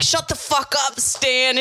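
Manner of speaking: acted irritated outburst; retold exasperated wife. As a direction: imitate an older wife hushing her husband. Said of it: "trying to get her husband to shut up".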